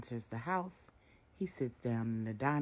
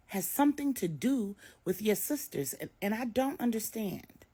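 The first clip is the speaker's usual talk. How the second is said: higher, pleading motherly voice; worried mother; 8 semitones higher, 6 dB louder than usual. A narrator's reading. Maria begs her daughter Jessica to talk, worried. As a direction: coax her daughter to open up.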